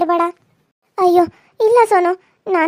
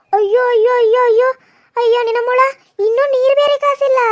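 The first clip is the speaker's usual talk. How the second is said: exasperated; 4 semitones higher, 3 dB louder than usual. Acted. Mother-in-law finds no hot water.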